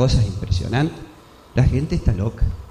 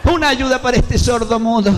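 beggar's plea; 9 semitones higher than usual. Acted. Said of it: "un tipo pidiendo".

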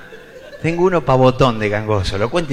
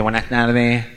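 lightly voiced nasal speech; mumbled as if through a blocked nose; mild imitation of a man with a speech defect; nasal gangoso voice; 3 semitones lower than usual. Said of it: "aquel gangoso que se mete en un kiosco y dice".

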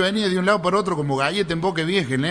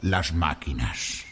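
put-on slow Spanish accent, starting low and climbing; Galician gambler; 6 semitones lower, much slower than usual. Galician acts out feeding slot machines. (gallego pausado, cada vez más agudo)

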